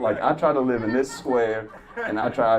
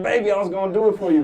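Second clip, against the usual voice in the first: high, fast, louder crooning line; smooth talker; 10 semitones higher, 7 dB louder, faster than usual. Retold or imitated. Comic sweet-talks the nurse, fast and high. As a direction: play the charming flirt quickly. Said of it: "I was like".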